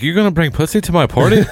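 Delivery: high, incredulous mock outrage; mock shocked question. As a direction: play up the scandalised coworker. Coworker's shocked reply retold, laughing.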